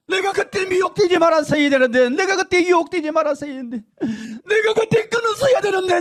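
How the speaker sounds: loud, high anguished shouting; woman in hell crying out she was deceived; screaming curses. Retold or imitated. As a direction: scream out regret in torment. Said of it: "막 소리를 지르니까요".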